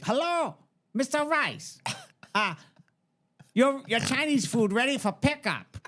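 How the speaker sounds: put-on high caricatured Asian accent; high takeout caller in a mock Asian accent. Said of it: "you can't do an Asian accent".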